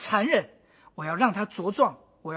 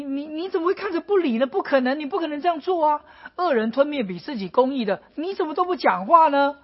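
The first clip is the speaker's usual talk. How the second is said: higher, rising complaint that speeds up near the end; anguished protest; 3 semitones higher than usual. Retold or imitated. Habakkuk arguing with God over injustice, anguished. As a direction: plead in disbelief, voice climbing. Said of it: "他说".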